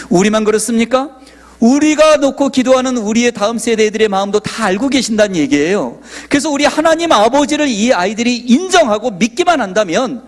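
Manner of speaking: fervent sermon climax; preaching. Acted. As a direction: lift them up with rising conviction. Preaches about God as master.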